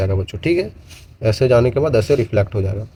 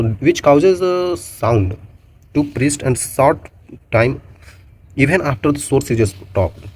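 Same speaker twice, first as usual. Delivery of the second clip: slow definition read; much slower than usual. Acted. Reads definition slowly.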